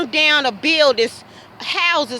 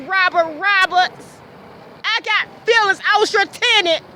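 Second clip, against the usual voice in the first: real screaming; 4 semitones higher than usual. Real, not acted. Yelling at her landlord for calling her a bitch, raw anger. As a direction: yell it out, mad and betrayed. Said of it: "I'm screaming because I was so mad".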